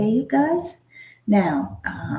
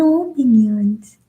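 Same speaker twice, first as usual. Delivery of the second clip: cooing; 6 dB louder, slower than usual. Retold or imitated. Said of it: "we go".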